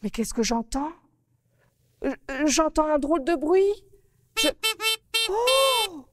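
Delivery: put-on a little girl upset about the flower on her nose. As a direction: petite fille contrariée. Narrator plays Mimi Coquelicot.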